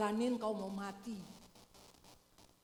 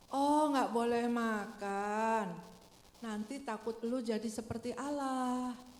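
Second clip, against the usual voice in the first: tempting serpent; slower than usual. Retold or imitated. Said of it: "iblis suka berdesak, eh, berbisik".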